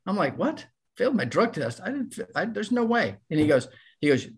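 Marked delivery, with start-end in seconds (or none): 0.0-3.2 retold shocked protest, pitched up and stumbling; high, incredulous, words tripping over each other; acting out a stunned denial; frantic disbelief. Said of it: "I'm going from frantic".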